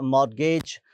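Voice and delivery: मॉर्गेज said mor-gage, with no t sound; silent t. Shown as a demonstration. Teacher showing students a silent letter: मॉर्गेज without the t. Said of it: "टी silent है".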